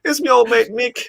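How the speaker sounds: high, loud Irish attempt sounding Australian; hammed-up, failed Irish accent; bad Irish accent. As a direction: botch an Irish accent into Crocodile Dundee. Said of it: "you sound like Crocodile Dundee".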